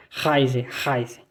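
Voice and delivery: Reise with guttural R, haize; scene: teacher models guttural R at start of Reise; German Reise. Shown as a demonstration. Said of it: "O R você pronuncia gutural".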